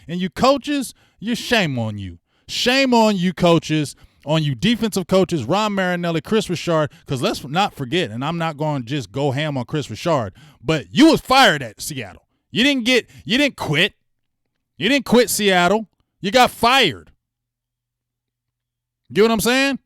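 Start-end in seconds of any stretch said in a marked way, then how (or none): 0.1-6.9 scolding. Real, not acted. Scolding the coaches. 10.6-19.8 higher and louder, jabbing at each word; angry callout. Real, not acted. Fan tearing into the defensive coach, loud and angry.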